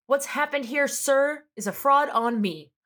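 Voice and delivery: grand legal-drama delivery; dramatic courtroom speech. Retold or imitated. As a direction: play it like a TV courtroom climax. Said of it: "I'm sure he didn't deliver it like that".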